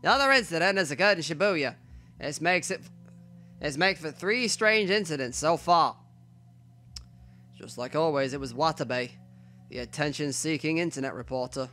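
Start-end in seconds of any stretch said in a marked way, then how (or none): 0.0-6.0 put-on old-timey newsreel announcer. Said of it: "giving the old-timey voice".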